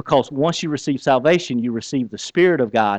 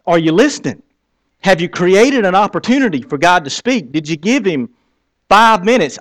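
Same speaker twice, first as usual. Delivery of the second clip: higher, louder, pressing the point; louder challenging question; 5 semitones higher, 3 dB louder than usual. Retold or imitated. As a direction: push them to answer. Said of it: "I would say".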